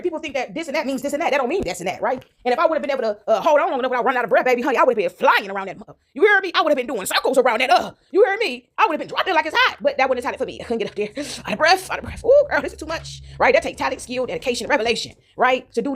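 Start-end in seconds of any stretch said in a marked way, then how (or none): 6.1-9.8 high excited, sassy; excited sassy squeal. Real, not acted. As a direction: hype it up loudly.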